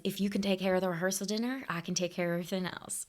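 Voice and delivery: put-on quoting the groom to her parents in a light Southern accent. Retelling the groom's offer in a faint, mock Southern accent. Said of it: "I don't know why I gave him a Southern accent".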